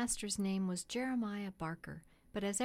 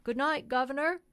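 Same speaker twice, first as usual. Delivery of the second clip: higher, louder cheery greeting across the street; cheery call; 5 semitones higher, 7 dB louder than usual. A narrator's reading. Cab driver greets the stand man with a cheery call. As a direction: call out a bright good night. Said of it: "called out in a cheery voice".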